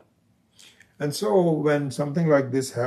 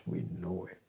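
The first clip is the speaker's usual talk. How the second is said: "We know it" with the weight on "know", said much softer; stress on know; 5 semitones lower, 10 dB quieter, faster than usual. Shown as a demonstration. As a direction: lean on "know", quiet and low.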